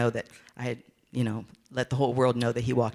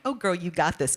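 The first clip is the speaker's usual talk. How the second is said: confident; 6 semitones higher than usual. Retold or imitated. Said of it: "I went from being like".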